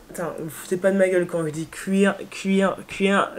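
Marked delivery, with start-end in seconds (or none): 1.7-3.3 queer said in the eastern French way, repeated on purpose; queer with an Eastern French accent. Shown as a demonstration. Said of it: "c'est mon accent de l'Est". (queer avec l'accent de l'Est)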